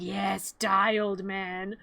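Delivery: slow low mock-evil gloat; sinister gloat. Sally watching the doctor drink, slow low gloat. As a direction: draw it out low like a villain. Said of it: "and she's like".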